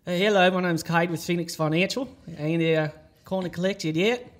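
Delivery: put-on a light, half-hearted Australian accent; weak Australian accent on a collection call. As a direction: do a so-so Australian phone greeting. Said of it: "Do the accent".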